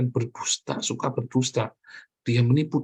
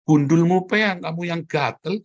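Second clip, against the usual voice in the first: loud, higher scolding; angry retort; 5 semitones higher, 3 dB louder than usual. Real, not acted. Preacher rebuking the cheating man, loud. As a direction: snap back at the cheater.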